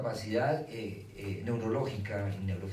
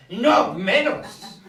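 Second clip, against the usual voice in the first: mock horrified shriek, much higher and louder, dragged out; a child recoiling in terror; 13 semitones higher, 15 dB louder, much slower than usual. Niño horrorizado. (niño aterrado, grito alto y lento)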